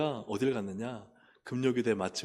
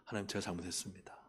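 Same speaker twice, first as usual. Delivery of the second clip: soft, quick, lower confession without real tears; subdued retold penitence; tearful repentance, retold; 4 semitones lower, 7 dB quieter, faster than usual. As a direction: murmur a remembered apology to God. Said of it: "막 눈물 흘리면서".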